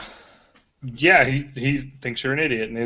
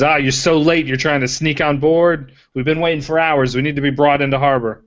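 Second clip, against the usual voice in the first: a hint of a commanding ship officer, pitched higher; authoritative voice; 3 semitones higher, 4 dB louder than usual. Half-orc calling to the sneaking party, lightly authoritative. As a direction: call out like a mildly bossy crewman in charge. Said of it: "authoritative voice".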